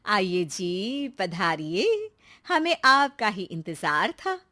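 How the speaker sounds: slow, sweet welcome to guests; a hostess welcoming three guests, syrupy polite. Acted. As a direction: draw out the greeting graciously.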